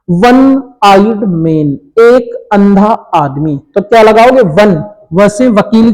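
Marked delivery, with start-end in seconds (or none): 0.1-3.6 each word drawn out slowly for pupils to write; slow dictation. Shown as a demonstration. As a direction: say it slowly so students can copy it. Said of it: "next". (धीमे-धीमे बोलकर लिखवाना)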